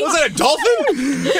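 mocking disbelief. Real, not acted. Mocking contestant's gobble.

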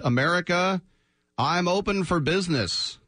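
mock proclamation. Team owner addressing America, mock proclamation.

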